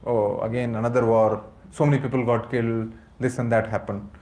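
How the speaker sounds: mild mock gloom. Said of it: "And you get depressed".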